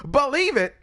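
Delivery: loud, high anime shout; Naruto. Retold or imitated. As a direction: yell it like Naruto. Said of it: "what did Naruto say?".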